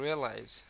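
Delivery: "রিয়েলাইজ" with heavy stress on the opening "রি"; teacher's demo of "রিয়েলাইজ", first syllable pressed. Shown as a demonstration. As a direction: lean into the "রি" of "রিয়েলাইজ". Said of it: "রি এর উপরে কিন্তু প্রচুর".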